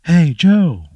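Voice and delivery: high loud call across the room; yelling to the back. Retold or imitated. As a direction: shout it toward the kitchen. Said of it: "And then he just yells".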